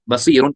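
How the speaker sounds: बसीरुन with a short final N; noon kept plain. Shown as a demonstration. Teacher spelling before baa arrives, बसीरुन with plain N. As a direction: end बसीरुन on N, no hum. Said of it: "क्योंकि अभी बा आया ही नहीं".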